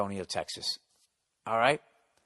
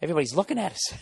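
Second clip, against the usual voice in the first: mock scared friend; much faster than usual. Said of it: "thinks he's gonna get kidnapped".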